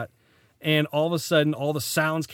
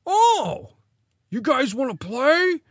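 high, sweet stranger voice; friendly stranger voice; 10 semitones higher, 6 dB louder, slower than usual. Retold or imitated. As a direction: lure them in with a high sweet voice. Voicing stranger offering game.

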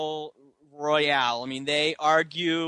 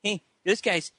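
higher-pitched, whiny tattletale; mock tattling kid; 5 semitones higher than usual. Scotty telling the lead instructor he got beaten, mock whiny tattling. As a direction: complain like a kid showing off bruises.

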